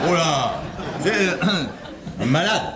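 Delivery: chuckling through the words; can't keep a straight face explaining; laughing. Real, not acted. Husband laughing as he tells his wife about the caller.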